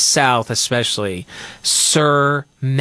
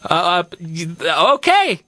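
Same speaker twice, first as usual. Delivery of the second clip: a confused clerk caught off guard, pitch jumping up; puzzled cashier; 3 semitones higher than usual. Retold or imitated.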